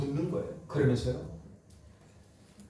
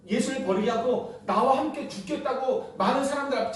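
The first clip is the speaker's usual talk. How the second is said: higher, half-laughing accusation of betrayal; indignant rebuke; 5 semitones higher than usual. Retold or imitated. Preacher voicing an ordinary man scolding Peter, mock indignant. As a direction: scold the disciple who swore loyalty. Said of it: "보통 사람은 그렇게 했겠죠".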